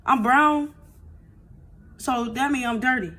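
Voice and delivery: put-on a little girl patiently spelling it out; imitating her little daughter. Mother retells daughter's explanation.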